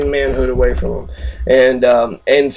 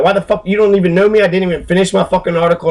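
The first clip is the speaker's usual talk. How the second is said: 1 angry outburst; 4 semitones higher, faster than usual. Real, not acted. Angry rant at wiki editor.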